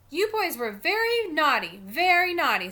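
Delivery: loud, high, drawn-out telling-off; cross babysitter, leaning hard on each word; scolding. Acted. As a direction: scold the boys slowly and forcefully. Babysitter scolds the two boys.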